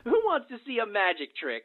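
put-on high, bouncy children's entertainer; clown voice. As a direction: greet the kids like a party clown. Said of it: "my clown voice".

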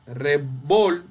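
"revol-" broken off right after a stressed VOL; re-VOL, stopping on the strong syllable. Shown as a demonstration. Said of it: "vol es la sílaba tónica".

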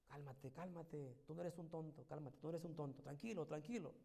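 inner calming voice. Retold or imitated. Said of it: "resuena en mi mente".

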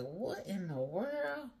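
high, drawn-out mock bafflement; baffled reaction. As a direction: imitate a listener who understood nothing. Acts a baffled listener's reaction.

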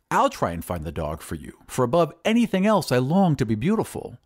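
warm to the offer, rising toward the end; growing eagerness; eager. Acted. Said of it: "said the glassblower eagerly".

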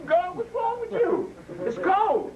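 high, exasperated jab at the wife; playful imitation of a fed-up man; mock exasperated husband. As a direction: squeak out the complaint, pretending to be the cold husband.

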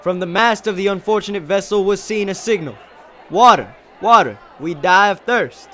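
high, loud, fervent declamation; shouted oration. Acted. Student extolling a great leader, shouted speech. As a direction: project it like an earnest orator. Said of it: "I shouted".

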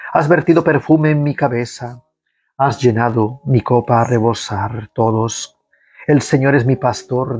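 measured liturgical reading of the psalm; psalm recitation. Acted. Prayer leader leading online faithful in psalm, liturgical reading. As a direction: lead the congregation through the psalm.

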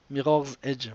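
Mirror's Edge said with a clumsy French-English accent, /miʀɔʀ ɛʒ/; lousy English accent. Real, not acted. Host apologizing for his accent, Mirror's Edge in clumsy English accent. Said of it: "pardon, mon accent pourri".

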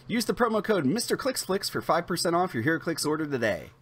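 brisk, polished promo read; scripted ad-read delivery, evenly projected; sponsor read. Acted. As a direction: read it like a rehearsed channel sponsor spot. Reads the sponsor intro.

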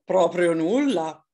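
a touch of a howl from the round fox; lightly howled answer; howled fox reply. A narrator's reading. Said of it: "ululò Volpe Tonda".

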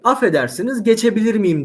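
lightly acted courteous request; polite request. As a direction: ask politely to get past. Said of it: "diyecek hanımefendiye".

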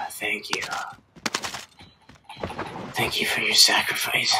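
mock solemn whisper. Mock solemn thanks to teammate.

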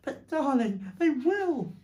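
high, loud, mock tearful wail; acted distraught pleading; sobbed protest. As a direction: plead as if near tears. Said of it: "sobbed Missus Fox".

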